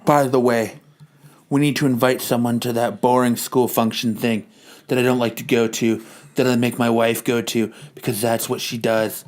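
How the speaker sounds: low, soft put-on wife voice; a weary wife handling everything. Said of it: "His wife continues".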